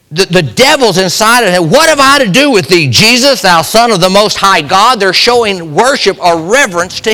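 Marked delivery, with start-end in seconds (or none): 1.7-5.0 demon crying out. Retold or imitated. Preacher voicing the demons crying to Jesus, raised and fast. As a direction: blurt it out like a cornered spirit. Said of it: "What he's saying is".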